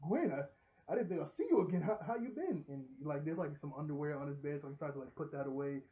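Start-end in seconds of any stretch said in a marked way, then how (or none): 0.1-2.6 imitated nervousness. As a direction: act out a flustered, halting hello. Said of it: "getting really nervous".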